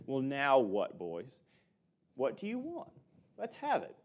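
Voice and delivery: a lightly hammed-up fed-up dad; insincere, impatient. Shown as a demonstration. A tired father brushing off his pestering boys, mock impatient. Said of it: "it was not an insincere".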